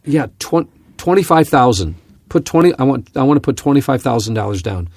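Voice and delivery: loud, keen money talk; mock eager investor naming his stake; imitating loud eager caller. Pilot mimics instructor ordering stock by phone, loud and eager. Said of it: "He's talking really loudly".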